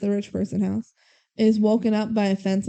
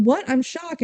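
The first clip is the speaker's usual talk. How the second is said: quicker, simpler retold shock, pitched higher; mock surprise; 4 semitones higher than usual. Imagining him confirming that he already knew, lightly acted surprise. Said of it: "would have taken was him going".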